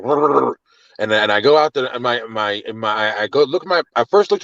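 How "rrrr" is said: rolled growl like an angry dog; imitated dog growl. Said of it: "barking, just like".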